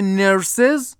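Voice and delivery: "نرسز" as English "nurses", ending in "siz"; two syllables. Shown as a demonstration. Teacher contrasts plural with singular, "نرسز" in two syllables. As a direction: say "نرسز" in two beats with a voiced z at the end.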